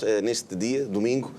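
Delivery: ordinary delivery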